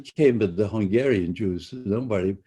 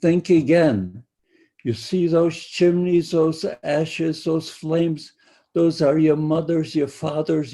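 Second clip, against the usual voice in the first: loud, higher, harsh mock-shouted threat; guard taunting arriving prisoners, loud and higher; retold guard's shout; 5 semitones higher, 5 dB louder than usual. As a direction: bark it at the new arrivals like a camp guard.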